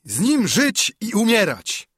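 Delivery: high, rousing crowd cry; narrated rallying cheer; shouted pledge. A narrator's reading. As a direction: shout an oath of loyalty. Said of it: "krzyknęli".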